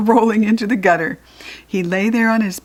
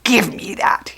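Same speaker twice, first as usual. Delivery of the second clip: ordinary delivery, nothing marked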